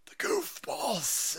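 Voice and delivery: high, slow, stretched word; sing-song it up high, stretching it out; high, lingering mock wail; drawn-out comic echo. Second take, drawn out.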